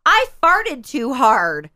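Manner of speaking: put-on slow, matter-of-fact child announcing it; dead serious. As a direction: state it solemnly, word by word. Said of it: "And he's dead serious".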